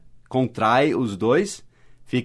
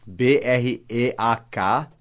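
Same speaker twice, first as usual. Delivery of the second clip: slow letter-by-letter spelling; spelling aloud; 2 semitones lower, much slower than usual. Shown as a demonstration. Teacher spelling the phrasal verb. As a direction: spell each letter slowly. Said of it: "Break down".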